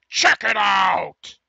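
hyped shout. Real, not acted. Hypes up the reaction video.

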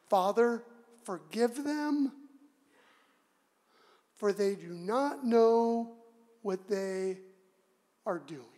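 slow, measured plea with long pauses; Jesus' forgiveness. Acted. Preacher voicing Jesus praying for his executioners, slow forgiveness. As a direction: pray it gently, phrase by phrase. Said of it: "Jesus said".

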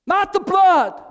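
high shouted demon cry; demon's man voice. Retold or imitated. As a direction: wail it in terror. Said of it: "In a man's voice".

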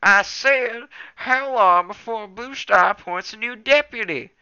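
loud irritated repeat; shouting impatiently. A narrator's reading. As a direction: shout it again for a deaf ear. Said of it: "snapped Small Ear impatiently".

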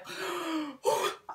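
high, soft drawn-in gasp; nervous gasp. Real, not acted. About to ruin a new highlighter, nervous gasp. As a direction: suck in breath before the plunge.

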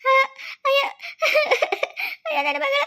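high-pitched cry of shock; shocked wail. Acted. Parent just told of daughter's death, shocked wail. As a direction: cry out at terrible news.

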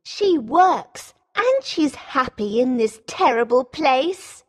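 high-pitched, resentful sister; angry Rosalind. A narrator's reading. Jealous sister resenting Beauty's happiness, angrily. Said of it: "says Rosalind angrily".

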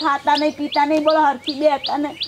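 crying. Acted. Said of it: "કેમ રડો, રોવો છો?".

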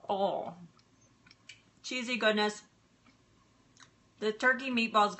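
talking with a mouthful; chewing while talking; mouth full. Real, not acted. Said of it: "talking with my mouth full".

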